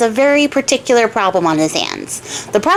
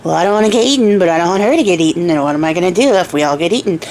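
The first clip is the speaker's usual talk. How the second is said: lightly acted worried mumble, quick and sinking lower; muttering to himself; 4 semitones lower, faster than usual. Farmer at home frets about getting eaten, muttering to himself. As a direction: run the words together in a low self-directed ramble. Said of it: "just muttering, mumbling to himself".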